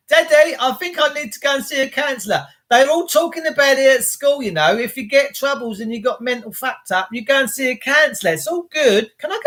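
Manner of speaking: half-played kid begging to see a counsellor; child's voice. Small boy asks his dad about a counsellor, lightly voiced child.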